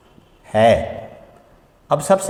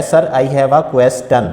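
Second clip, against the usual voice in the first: imitating a student; much slower than usual. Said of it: "teacher से कह रहा होता है".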